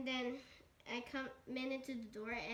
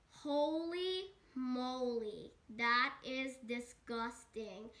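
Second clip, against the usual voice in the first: acted disgusted amazement; much slower than usual. Reacts to Sonic's bare feet.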